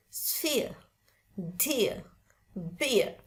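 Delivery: "sphere, dear, beer" British-style, no final R; British demo of "sphere, dear, beer", R silent; British, R dropped. Shown as a demonstration. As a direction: let "sphere, dear, beer" end on the vowel. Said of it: "Kalau orang British itu bacanya".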